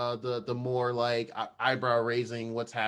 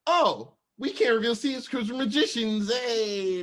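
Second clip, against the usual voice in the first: mock bluff; 9 semitones higher, 5 dB louder than usual. Wanda voiced bluffing.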